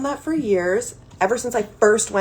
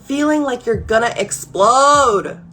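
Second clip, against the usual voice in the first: mock explosion; 3 semitones higher, 5 dB louder than usual. Acting out the urge to explode.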